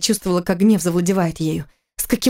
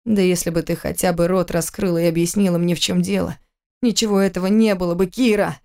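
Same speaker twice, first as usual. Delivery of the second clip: growled. Acted. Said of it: "зарычал он".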